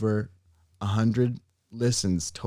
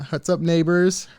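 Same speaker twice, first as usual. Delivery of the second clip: mock greeting to Canadians; 6 semitones higher than usual. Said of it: "trying to speak in all of these languages".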